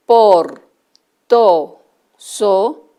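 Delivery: tar, par, tan, dar each loud and separate; clear syllables. Shown as a demonstration. Teacher presenting syllables to children, loud and clear. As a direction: call out each syllable firmly. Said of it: "En el grupo lo".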